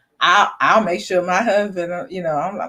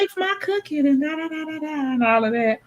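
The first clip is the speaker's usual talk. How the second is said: grandfather's warning; 3 dB quieter than usual. Retold or imitated. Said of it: "he said".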